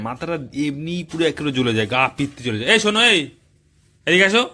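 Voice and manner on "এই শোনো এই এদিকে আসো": yelling across the room. Real, not acted. Husband calling wife from another room.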